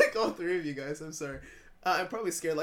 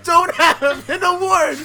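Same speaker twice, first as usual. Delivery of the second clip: high, slow crying shout; 10 semitones higher, 13 dB louder, slower than usual. Pretend. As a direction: wail it out loud. Mock outrage over award.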